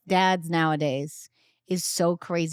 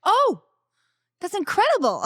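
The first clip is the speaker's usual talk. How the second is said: high, loud gasp of wonder; hammed-up awe; mock amazement; 13 semitones higher, 6 dB louder than usual. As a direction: act dazzled by the feat.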